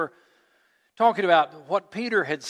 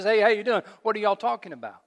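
casual greeting; 3 semitones higher than usual. Acted. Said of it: "Jesus walks up and says".

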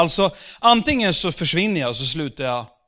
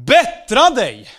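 loud moralizing shout, slow; 6 semitones higher, 7 dB louder, slower than usual. Shown as a demonstration. Preacher yelling a moral command at the congregation, shouting. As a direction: bellow it like a scolding preacher. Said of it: "nu skrek jag verkligen".

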